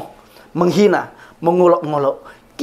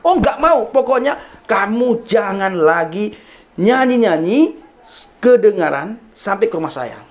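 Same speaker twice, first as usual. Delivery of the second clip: higher-pitched, insistent angry scolding; retold strident refusal; 4 semitones higher than usual. Neighbour refusing to sit and banning the singing, re-enacted strident anger. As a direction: imitate an angry neighbour laying down the law, stretching the key words. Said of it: "dengan nada lantang, suara yang keras".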